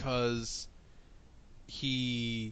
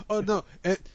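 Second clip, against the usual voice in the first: put-on high, loud goofy old man; weird old man voice; 6 semitones higher, 8 dB louder, faster than usual. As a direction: play the odd old traveller, pitched way up. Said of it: "And he said".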